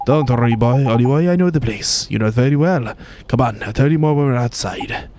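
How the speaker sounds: light Welsh lilt, cheeky and brisk; Drippy in a Welsh accent. Acted. Drippy ordering the guards, in a light Welsh accent. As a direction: play the cheeky Welsh sidekick giving orders.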